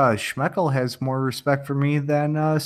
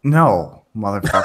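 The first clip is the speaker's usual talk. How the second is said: louder barked curse with a laugh; military voice; 4 semitones lower, 4 dB louder than usual. Shown as a demonstration. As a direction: commit to the drill sergeant bark. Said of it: "That's all you got?".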